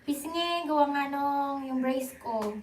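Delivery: talking through swollen, sore cheeks. Real, not acted. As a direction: speak with braces pressing cheeks. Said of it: "laki ng mukha ko ngayon, namamaga". (namamagang pisngi)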